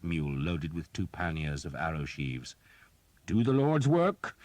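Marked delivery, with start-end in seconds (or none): 3.2-4.4 loud, high and slow, a priest rallying fighters; priest's battle cry. A narrator's reading. Priest urging archers on, loud and slow. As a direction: call it out high and slow over the din. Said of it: "Father Hobb said".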